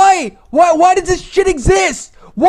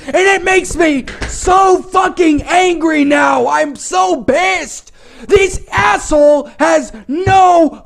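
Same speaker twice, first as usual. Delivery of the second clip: furious rant; slower than usual. Real, not acted. Raging about the story.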